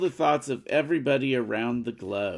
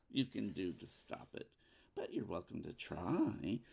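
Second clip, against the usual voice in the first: telenovela villain; 4 semitones lower, 5 dB louder than usual. Acted. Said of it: "She just sounded like a telenovela villain".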